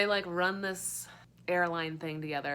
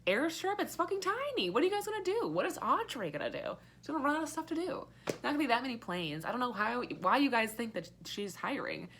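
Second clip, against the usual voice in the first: 1 mocking retort; 5 semitones higher than usual. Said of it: "And I'm like".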